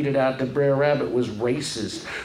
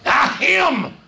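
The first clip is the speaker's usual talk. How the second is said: a loud cry, higher; loud exclamation; 11 semitones higher, 5 dB louder than usual. Acted. Rabbit blurts at the tar babies, loud and high. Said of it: "said Brer Rabbit loudly".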